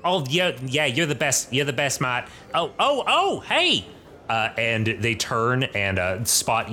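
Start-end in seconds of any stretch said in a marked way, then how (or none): 0.0-2.3 dwarf professor. Acted. GM voices dwarven professor at bar. 2.5-3.8 spot someone and call out eagerly; dwarf professor spots the new student, excited greeting; surprised call. Acted. Professor spots Leslie, calls out.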